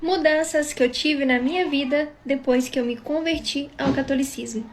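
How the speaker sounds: speaking with a sore throat. Real, not acted. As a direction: talk through a sore, swollen throat. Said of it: "porque eu tô com dor de garganta". (voz de dor de garganta)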